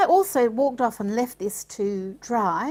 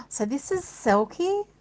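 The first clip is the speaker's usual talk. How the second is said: delighted gasp; 6 semitones higher than usual. Real, not acted. New ink revealed.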